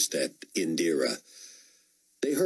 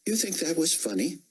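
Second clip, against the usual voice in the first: stern officer; 11 semitones higher than usual. A narrator's reading. Officer scolding soldier.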